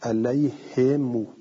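علیهم read alayhimu, kasra on the ha and a long u on the mim; slow alayhimu, stretching the final vowel; علیهم as ʿalayhimū. Shown as a demonstration. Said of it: "ها کسره داره".

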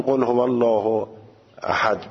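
قل هو الله احد with plain احد; careful recitation. Shown as a demonstration. Teacher advising cautious recitation. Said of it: "احتیاط خوبه که آدم همون".

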